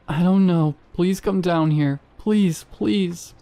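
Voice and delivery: high, loud, desperate begging; terrified pleading. Acted. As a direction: plead for help, frightened. Girl begging in terror.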